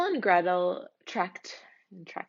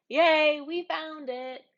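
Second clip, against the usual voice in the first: cheering; 6 semitones higher, slower than usual. Acted. Children cheer at finding their house. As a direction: celebrate finding home.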